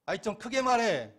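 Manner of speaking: high, loud mock nag; imitating a wife's sharp nag; nagging wife. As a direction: play the wife telling him to speak up. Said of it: "이렇게 잔소리했어요".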